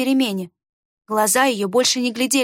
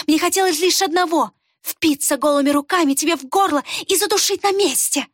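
hateful outburst; 6 semitones higher than usual. A narrator's reading. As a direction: spit out the hatred. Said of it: "Рукс издала протяжный стон". (ненавистная тирада, очень высоко и громко)

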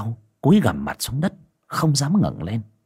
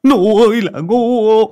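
loud, drawn-out, higher yell; frustrated yell; 12 semitones higher, 8 dB louder, slower than usual. Acted. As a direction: bellow the insult slowly. Master yelling in frustration.

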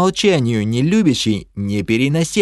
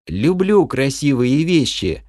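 shy smile; 4 semitones higher than usual. Acted. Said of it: "застенчиво улыбаясь".

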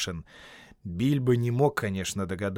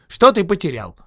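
calling out; 8 semitones higher, 10 dB louder than usual. Acted. Bilbo calling to Gollum.

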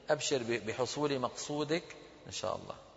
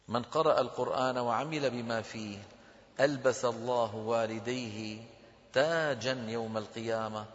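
slow, measured reading with drawn-out vowels; hadith recitation; 2 semitones lower, slower than usual. Acted. Teacher reading a hadith to students, slow formal recitation. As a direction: recite it deliberately, phrase by phrase.

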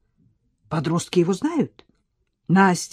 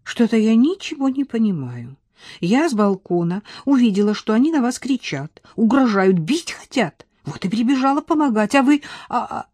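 confused; 4 semitones higher than usual. Acted. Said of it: "Настя растерянно сказала".

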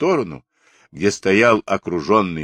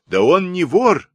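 high, loud protesting call; women shouting afar; 12 semitones higher, 5 dB louder than usual. A narrator's reading. Village women defending the runaway, shouting from afar. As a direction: protest loudly from a distance. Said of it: "закричали бабы издали".

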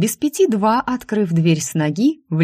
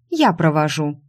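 a touch of defiance; bold, defiant. Acted. Secretary stands up to her rival, defiant. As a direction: answer boldly, as a challenge. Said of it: "ответила смело и с вызовом".

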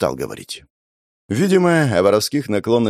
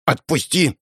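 put-on higher girl's voice demanding release; pulling free; 5 semitones higher than usual. Girl struggling against her brother's grip, higher demanding voice. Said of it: "Она пыталась вырваться".

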